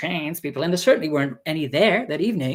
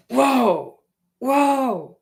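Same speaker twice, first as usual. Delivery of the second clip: mock shock; 8 semitones higher, 3 dB louder than usual. Mimics his shocked reaction.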